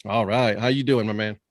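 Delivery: lightly voiced goofy puppet host; goofy muffled sock puppet. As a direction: talk like a silly sock puppet. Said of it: "I'm a sock puppet".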